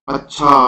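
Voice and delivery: "अच्छा" with its last vowel carried on; trailing intonation wave. Shown as a demonstration. Teacher demonstrating intonation to students, trailing wave on "अच्छा". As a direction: let the end of "अच्छा" ring on. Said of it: "अच्छा के बाद देखिए एक लहर चलती है".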